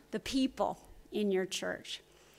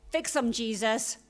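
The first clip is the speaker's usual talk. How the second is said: impatient prayer; 5 dB louder than usual. Acted. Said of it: "Not that prayer".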